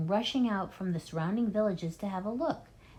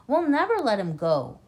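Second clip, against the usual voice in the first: louder, stress on never; loud declaration; 4 semitones higher, 6 dB louder than usual. Acted. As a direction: vow it loudly. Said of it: "Bunce declared".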